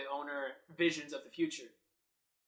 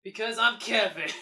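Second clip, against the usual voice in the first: loud declaration; 6 semitones higher, 8 dB louder than usual. Pretend. Deep-voice Kevin bit.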